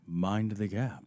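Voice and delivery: low, slow PA announcement voice; intercom announcer. Pretend. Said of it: "sounds like the hospital voice".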